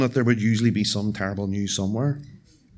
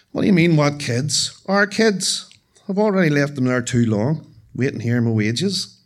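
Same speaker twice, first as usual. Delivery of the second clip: indignant mother; 4 semitones higher, 5 dB louder than usual. Acted. Confused mother insists on kids.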